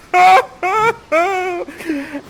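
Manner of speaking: loud, high theatrical sobbing; mock wailing. Ferdinand remembers his father's wreck, mock wailing. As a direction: break into hammed-up bawling.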